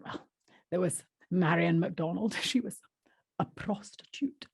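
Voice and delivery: softly voiced Yorkshire woman, hushed at the end; Yorkshire accent. Barbara revealing who Marion was, hushed Yorkshire accent. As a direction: confide it in mild Yorkshire, dropping to a hush. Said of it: "Barbara's the Yorkshire woman".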